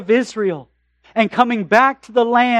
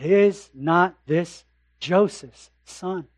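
doubting neighbour; 4 semitones lower, 4 dB quieter, slower than usual. Acted. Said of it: "I get that he's a great preacher".

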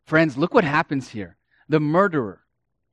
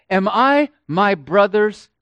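scornful question; 4 semitones higher, 5 dB louder than usual. Acted. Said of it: "He says this".

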